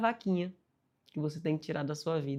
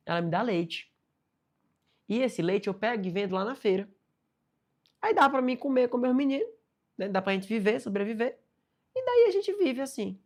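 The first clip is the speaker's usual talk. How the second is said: put-on higher, louder old villager explaining himself; old man voice; 5 semitones higher, 4 dB louder than usual. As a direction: speak as a humble old man telling his story. Old man explaining his life. (voz de senhorzinho humilde)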